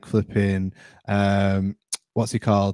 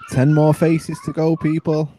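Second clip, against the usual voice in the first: loud, high, drawn-out progress call; 6 semitones higher, 5 dB louder than usual. Real, not acted. Host announcing progress to the people, calling out.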